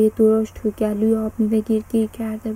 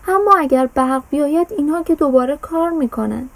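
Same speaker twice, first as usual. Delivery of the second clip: put-on boy's voice, higher and louder; raised, higher child's call; 4 semitones higher, 4 dB louder than usual. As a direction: call it out like a worried boy. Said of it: "با صدای بلند گفت".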